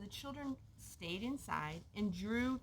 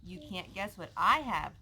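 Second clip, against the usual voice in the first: slow, sing-song teasing to a friend; 2 semitones lower, 5 dB louder than usual. Acted. Girl taunting her friend about a secret, slow teasing. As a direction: dangle the secret in front of him. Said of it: "Tessa teased".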